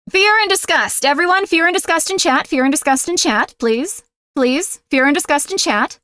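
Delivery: playful tyrant barking orders at the chat; mock commanding demand. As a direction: boss the chat around in jest. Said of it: "I'm doing a voice".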